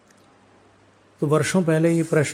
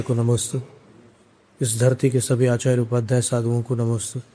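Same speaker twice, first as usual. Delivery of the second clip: measured reverent recitation, lower than conversational talk; formal salutation; 3 semitones lower than usual. Acted. Speaker paying homage to gurus before a discourse, formally recited. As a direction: recite the homage evenly, phrase by phrase.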